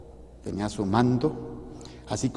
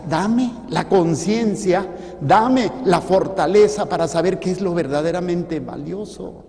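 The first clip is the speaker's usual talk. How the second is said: preacher praying aloud, fervent; fervent prayer; 4 semitones higher, 6 dB louder than usual. Real, not acted. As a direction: beg God with all your heart.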